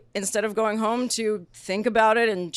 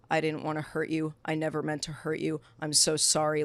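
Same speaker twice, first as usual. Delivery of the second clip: softer, emotionless robotic apology; 3 semitones lower, 6 dB quieter than usual. Retold or imitated. Ex-boyfriend apologizing to girlfriend during breakup, robotic. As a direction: recite the apology like a robot, quietly. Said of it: "robotic, very, like".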